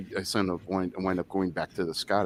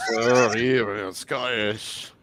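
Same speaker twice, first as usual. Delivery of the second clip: put-on drunk Scottish accent; much slower than usual. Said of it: "'cause when you're drunk, you go".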